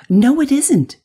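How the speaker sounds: loud, high-pitched contradiction; indignant denial. A narrator's reading. Boy contradicting girl in story.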